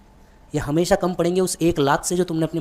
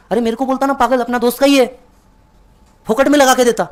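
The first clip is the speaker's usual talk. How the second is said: grumbling dad; 7 semitones higher, 5 dB louder than usual. Retold or imitated. Dad grumbles about fan price.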